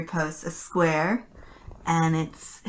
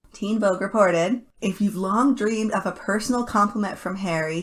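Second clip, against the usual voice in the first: reading an article aloud. Acted. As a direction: read the press quote out like an announcement. Reads out article description.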